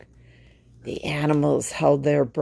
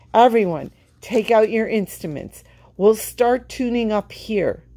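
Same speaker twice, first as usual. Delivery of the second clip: raised, higher calling voice; 6 semitones higher than usual. Acted. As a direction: call across to the band. Calling the band.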